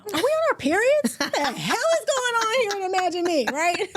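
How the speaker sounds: high, loud, joking disbelief; mock exasperated. Real, not acted. Aunt joking to her niece about crying so much. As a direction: throw up your hands laughing. Laughing at their own tears.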